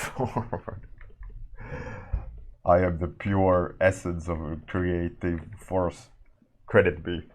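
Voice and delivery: booming mock god voice; dark lord. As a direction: proclaim it like a grandiose deity. Mock grandiose claim, then "trademark.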